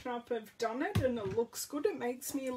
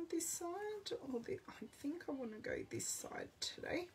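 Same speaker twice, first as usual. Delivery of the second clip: whispered aside; 5 semitones higher, 9 dB quieter than usual. Real, not acted. Muttering an aside to herself.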